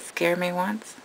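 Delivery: playful menacing whisper for the snake; mock snake threat. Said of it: "She said".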